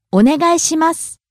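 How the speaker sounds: お願いします rising on ね, falling on the last す; pitch accent demo. Shown as a demonstration. Teacher models polite request, お願いします rising on ね and falling on す. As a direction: climb at ね in お願いします and drop at す. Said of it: "Rising on the second syllable ne".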